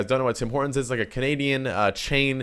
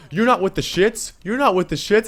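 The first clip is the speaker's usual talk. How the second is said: higher-pitched imitation of a yelling kid; mock yelling; 7 semitones higher than usual. Storyteller imitating the kid cussing him out, higher mock yell. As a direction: mimic his yelled taunt, pitch raised. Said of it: "and then he starts yelling".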